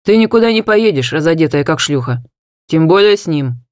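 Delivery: loud forbidding voice; angry father. Acted. Father forbidding his daughter to go, angry and loud.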